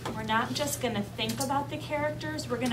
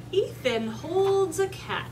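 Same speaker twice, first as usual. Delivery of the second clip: slow, higher storybook reading; read-aloud to children; 6 semitones higher, 3 dB louder, much slower than usual. A narrator's reading. Teacher reading a picture book to her class, slow read-aloud. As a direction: draw out the words of the story.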